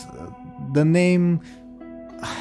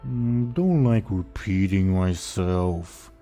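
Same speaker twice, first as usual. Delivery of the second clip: dopey ogre voice; much slower than usual. Acted. GM voicing the ogre.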